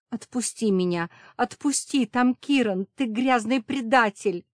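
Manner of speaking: high, loud tearful cry at the traitor; sobbing shout. A narrator's reading. Safira sobbing at the vampire, loud tearful yell. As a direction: scream it through tears. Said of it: "Сафира рыдала".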